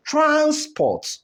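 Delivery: Transport with TRANS held high, PORT dropping; stress on first syllable. Shown as a demonstration. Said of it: "the first syllable takes the higher stress".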